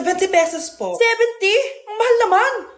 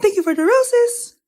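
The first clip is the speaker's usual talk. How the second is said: TikTok NPC live; 3 semitones higher, slower than usual. Pretend. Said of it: "yung A I na trend sa TikTok, yung nagla-live".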